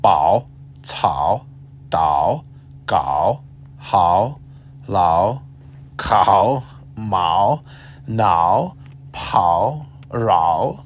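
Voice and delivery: Bao, cao, dao recited one by one with pauses; slow drill. Shown as a demonstration. Teacher drilling ao syllables for learners, one at a time. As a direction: drill each "ao" syllable separately. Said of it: "say these ten sounds".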